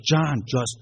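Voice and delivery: high, loud, drawn-out imitated cry; retold desperate plea. Retold cousin's desperate plea to let go.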